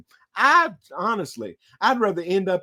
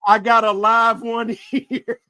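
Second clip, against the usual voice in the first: louder, laughing delight; gleeful spirit; 5 semitones higher, 5 dB louder than usual. Pretend. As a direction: cackle over a fresh catch.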